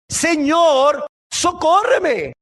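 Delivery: high, drawn-out plea for help; acted mother's appeal; pleading cry. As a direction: cry out, stretching the last word. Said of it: "imagínate una madre clamándole".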